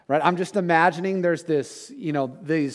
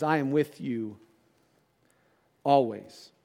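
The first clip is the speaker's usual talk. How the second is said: true promise, tender; slower than usual. Retold or imitated. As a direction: let the real promise land gently. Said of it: "He says".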